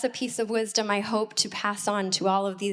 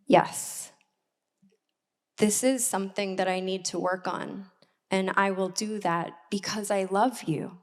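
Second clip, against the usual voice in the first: humble sincere apology; 3 semitones lower than usual. Retold or imitated.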